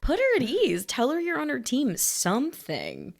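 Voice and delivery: high, loud pleading advice; exasperated urging. Pretend. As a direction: urge her, exasperated. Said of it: "I'm like".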